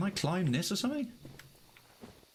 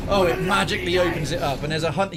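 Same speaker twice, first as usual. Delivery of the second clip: full rant mode; 3 semitones higher, 6 dB louder than usual. Real, not acted. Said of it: "I am in full rant mode".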